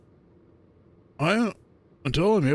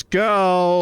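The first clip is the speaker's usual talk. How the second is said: louder, higher hype call; excited shout; 5 semitones higher, 6 dB louder than usual. Real, not acted. Hyping up friends, an excited shout. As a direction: pump up the table.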